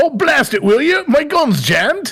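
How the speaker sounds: put-on British accent, very high. Switching to a British accent on request, playing a scene: British accent. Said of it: "like a British accent".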